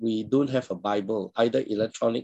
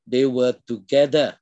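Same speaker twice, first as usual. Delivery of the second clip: "together" set apart and punched; stress on together; 3 dB louder than usual. Real, not acted. Preacher highlighting the word together to the congregation, emphatic on "together". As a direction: lean firmly on "together". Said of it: "I want to emphasize the word together".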